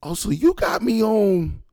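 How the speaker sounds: high, loud, drawn-out indignation; outraged realization. Retold or imitated. Son learns police are listening, retold outrage. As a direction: act out being caught off guard and offended.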